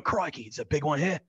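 admittedly bad Australian accent; lightly imitated Aussie wildlife man; Steve Irwin. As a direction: have a go at a rough Aussie accent. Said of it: "probably a terrible accent".

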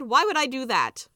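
high, loud indignant question; baffled protest; incredulous. Acted. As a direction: scoff at the very idea. Scrooge scoffs at repenting.

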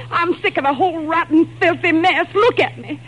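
she's had enough and lets it all out; fed-up outburst. Acted. Kitty breaks with the gang.

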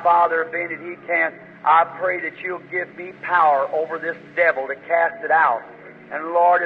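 a fervent prayer to God, steady and pleading; earnest prayer. Acted. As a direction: pray over the deaf man in earnest. Leads a prayer for healing.

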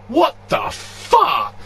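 high, slow, shouted outburst. Retold or imitated. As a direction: yell it in disbelief. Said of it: "audibly just shout".

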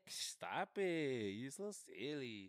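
slow, high, drawn-out hood voice. Acted. Mocking how people talked where he grew up, slow and high. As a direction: drag every word out like a girl from the hood. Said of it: "You heard me just talk like that".

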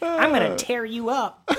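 hammed-up seductive growl; sexy voice. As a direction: ham it up as a hammy seducer. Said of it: "That's his sexy voice".

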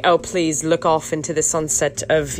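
lightly put-on British director; British accent. Podcaster mimicking crew posing the interviewee, light British accent. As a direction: slip into polite British for the instruction. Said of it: "I don't know why it turns into British".

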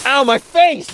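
high loud mock yelp; pained yelp. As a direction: cry out as if slapped. Comic pained cry.

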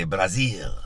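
playful put-on Brazilian accent. Shown as a demonstration. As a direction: say Brazil with a mock local accent. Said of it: "I just feel like I need to do the accent".

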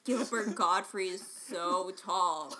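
slow, stretched sarcastic "so tall"; mock sarcasm. Shown as a demonstration. Trying a second example of sarcasm, drawn-out delivery. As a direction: lay the sarcasm on slowly. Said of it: "I'm being sarcastic".

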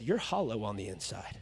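low, soft verdict; low quiet rebuke. Retold or imitated. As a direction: hush it like a judgment. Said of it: "and said".

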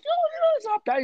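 mock tempted yes. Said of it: "I'm like".

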